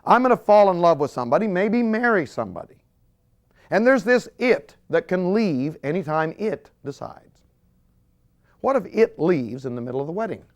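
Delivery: hint of panicky young single; imitating worried singles. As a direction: play the nervous single person. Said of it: "and they're saying".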